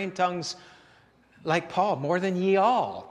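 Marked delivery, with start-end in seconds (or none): 2.0-3.1 slow, formal scripture wording; old King James phrasing. Retold or imitated. Preacher quoting Paul's scripture, slow and formal. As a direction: read it out like the old Bible. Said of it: "Paul was Texan".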